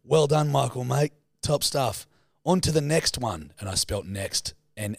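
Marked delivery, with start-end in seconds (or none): 0.1-3.5 mock cheery comment. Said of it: "I said".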